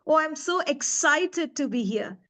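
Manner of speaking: drawn-out, mildly excited delivery; a touch of delighted excitement. Shown as a demonstration. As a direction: let slow, stretched excitement show. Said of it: "you should feel that excitement in my voice".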